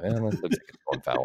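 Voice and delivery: low, half-swallowed offhand mumble under the breath. Retelling a mumbled call while commentating baseball: imitating own mumbling. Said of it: "I would sort of mumble".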